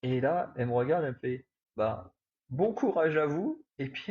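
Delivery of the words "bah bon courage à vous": imitating the lady. Lady's odd parting words imitated.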